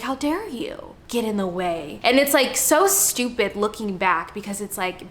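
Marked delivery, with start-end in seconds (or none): 0.0-2.0 a touch of quiet, bitter anger at her own body; angry at her body. Retold or imitated. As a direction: mutter it in hurt indignation. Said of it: "I was like".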